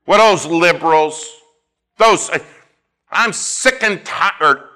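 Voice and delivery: loud, high mock outburst; mock indignant griping. Preacher mimicking church folk griping, indignant. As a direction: grumble loudly like a fed-up complainer. Mimicking people griping about what bugs them.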